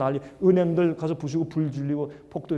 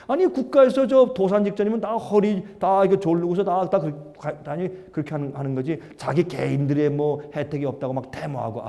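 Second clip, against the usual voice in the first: mock tut-tutting; 2 semitones lower than usual. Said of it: "그렇게 욕을 했어요".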